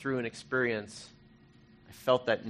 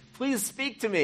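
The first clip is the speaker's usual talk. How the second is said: high-pitched retold plea; a raised, begging cry to God; pleading; 12 semitones higher than usual. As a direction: beg in a much higher voice.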